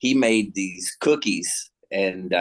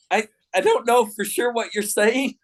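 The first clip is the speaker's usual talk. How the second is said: laughing disbelief; 13 semitones higher than usual. Retold or imitated. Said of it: "And she's like".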